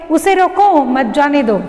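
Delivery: brief break after "रोको", then "मत जाने दो" together; pause after रोको. Shown as a demonstration. Teacher reading the first example sentence to children, pause after "रोको". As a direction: split the line just after "रोको". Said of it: "रोको के बाद यहाँ पर अल्प विराम".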